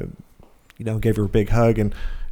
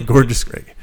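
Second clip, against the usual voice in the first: laughing boxer-name call-out; boxing announcer voice; 4 dB louder than usual. Retold or imitated. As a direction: boom it like a ring announcer. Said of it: "Sound like a boxer".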